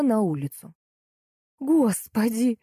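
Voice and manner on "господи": lamenting. A narrator's reading. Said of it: "запричитала Галина".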